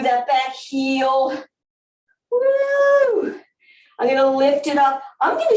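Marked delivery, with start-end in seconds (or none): 2.3-3.4 high, loud whoop of delight; excited whoop. Real, not acted. Instructor whooping to the class during a stretch, excited. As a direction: let out a joyful high woo.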